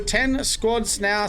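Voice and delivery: slow, drawn-out count like an auctioneer. Acted. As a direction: call out the squad count like an auctioneer. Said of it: "sound like an auctioneer".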